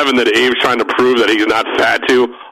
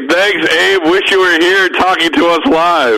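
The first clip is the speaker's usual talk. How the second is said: band's taped reply; 6 semitones higher than usual. Retold or imitated.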